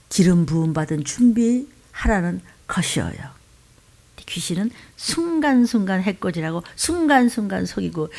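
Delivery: hushed whisper; whispered warning about spirits. Real, not acted. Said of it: "whispered warning".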